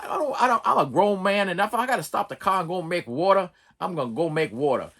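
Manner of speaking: lightly voiced Morgan Freeman; a hint of the dignified old driver; Morgan Freeman impression. YouTuber imitating Morgan Freeman insisting on stopping. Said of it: "my Morgan Freeman Driving Miss Daisy".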